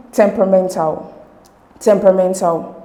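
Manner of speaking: temperamental, firm beats on tem and men; primary and secondary stress. Shown as a demonstration. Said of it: "the stress is placed on two".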